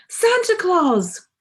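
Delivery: high, slow delighted cry of the name; excited cry. A narrator's reading. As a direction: call out in wonder, drawn out. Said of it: "cried Paddington".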